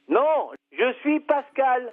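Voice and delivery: "Non, je suis Pascal" slowly, each word separate; insistent correction. Real, not acted. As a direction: drive home "Non, je suis Pascal" at a slow pace. Insists on his name to caller.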